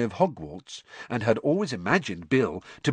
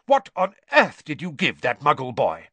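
raised, indignant demand; angry shout; 5 semitones higher, 5 dB louder than usual. A narrator's reading. Father questioning his prankster son, shouting angrily. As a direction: demand it loudly, in anger. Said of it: "he shouted".

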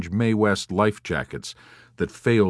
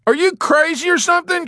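loud, high-pitched outraged shout; alarmed shout; 7 dB louder than usual. A narrator's reading. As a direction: yell it in disbelief. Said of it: "shouted Dobbs".

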